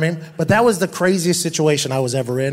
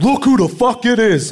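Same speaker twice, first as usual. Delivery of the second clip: 1 mock menacing greeting; 6 semitones higher than usual. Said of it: "Bart Scott goes".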